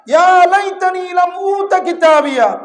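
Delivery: high, loud wailing cry of regret; anguished outcry. Acted. Preacher voicing the regretful servant on judgment day, anguished loud cry. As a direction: cry it out like a lost soul. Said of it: "চিৎকার দিয়ে বলবে".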